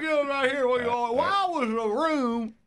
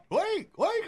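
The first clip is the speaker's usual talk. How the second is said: squeak toy; 6 semitones higher than usual. Pretend. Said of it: "the comedy squeak toy".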